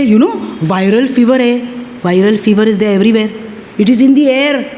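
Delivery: lightly acted low, quick warning; worried-bystander warning. Preacher voices people around you spreading fever news, lightly acted warning. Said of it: "people around you may say".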